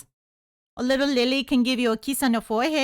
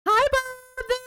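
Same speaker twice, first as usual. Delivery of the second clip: bright greeting; 11 semitones higher than usual. Real, not acted. Greeting, pitch jump.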